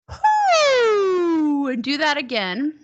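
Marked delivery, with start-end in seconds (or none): 0.1-1.7 long, high, loud "whoo"; head-voice whoo. Shown as a demonstration. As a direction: demonstrate a high hoot gliding down. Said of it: "go back to this".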